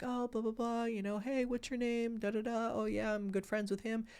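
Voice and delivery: put-on high, bright friendly girl voice; bubbly waitress. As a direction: chirp it like a cheerful waitress.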